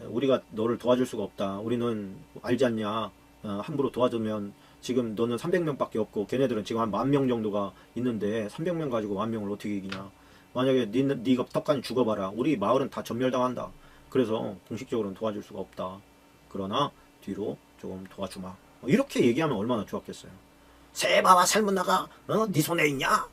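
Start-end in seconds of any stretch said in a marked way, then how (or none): 0.1-18.5 mildly gentle, reasoning tone; gentle refusal. Acted. Townsfolk privately promising help to Gideon, mildly gentle. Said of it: "온유하게". 20.9-23.3 drawn-out, high-pitched mocking question; sarcastic taunt. Townsfolk scoffing at Gideon's hungry men, sarcastic taunt. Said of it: "막 그러면서 비아냥거리고요".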